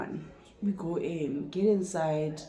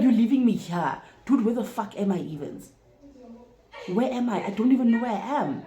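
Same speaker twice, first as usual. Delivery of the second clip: higher, louder, frantic; lost and alarmed, let it rise; panicked disbelief; 5 semitones higher, 3 dB louder than usual. Retold or imitated. Abandoned at the restaurant, panicked disbelief to her date.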